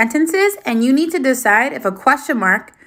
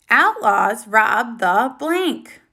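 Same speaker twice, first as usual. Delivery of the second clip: slow, stress on blank; slow fill-in-the-blank read; much slower than usual. Shown as a demonstration. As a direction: dwell on the gap word for the class. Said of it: "What word fits best there?".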